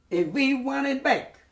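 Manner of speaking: high, loud mock ranting dictator; Hitler ranting. Survivor imitating Hitler raving on the radio, high loud rant. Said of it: "like a, a madman".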